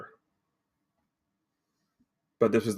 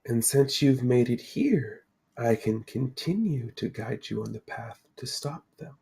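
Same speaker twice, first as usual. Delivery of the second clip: mysterious Lady of the Lake; 6 dB quieter than usual. Acted. Lady introduces herself to four adventurers, solemnly mysterious. Game master voices the Lady.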